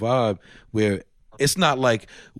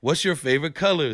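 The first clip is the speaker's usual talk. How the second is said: lightly put-on, higher-pitched kids' entertainer; a hint of cheery Disney host, pitched up for children; 4 semitones higher than usual. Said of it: "put my Disney voice on".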